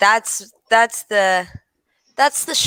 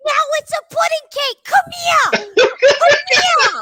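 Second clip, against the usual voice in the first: calling out; 3 dB louder than usual. Retold or imitated. Calling out as neighbor.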